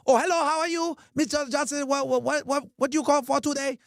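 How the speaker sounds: lightly voiced confused restaurant owner; imitated shop owner. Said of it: "some Chinese nigga gets on the line".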